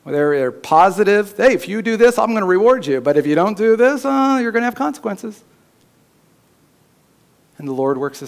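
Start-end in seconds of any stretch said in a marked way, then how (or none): 1.3-5.4 coax, then warn like a parent; parent warning child. Retold or imitated. Parent disciplining a child, mildly raised voice. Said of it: "how we disciple our children".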